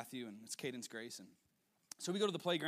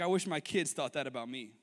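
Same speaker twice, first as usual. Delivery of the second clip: wistful father; 7 dB louder than usual. Retold or imitated. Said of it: "the father was like".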